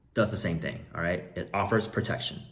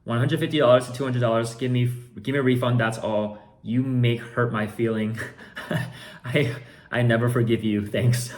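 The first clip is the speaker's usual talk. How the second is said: higher, louder mock buyer voice; reading buyer's message; 3 semitones higher, 5 dB louder than usual. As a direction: act out the whiny buyer. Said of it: "Then he says".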